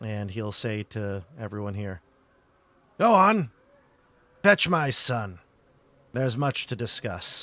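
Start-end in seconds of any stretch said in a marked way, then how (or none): 3.0-7.4 put-on gruff, rough, loud, bellowing old man voice. Game narrator voices old man Mardukov speaking to everyone: Mardukov's gruff voice. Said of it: "you'll hear a a gruff voice call out".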